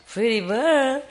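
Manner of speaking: high squawky parrot saying Pretty bird. Retold or imitated. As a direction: mimic the bird's Pretty bird. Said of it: "he told me".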